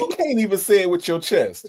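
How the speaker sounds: teasing, falling away at the end; teasing jab. Real, not acted. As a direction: needle the guest playfully. Host teases guest's chest remark.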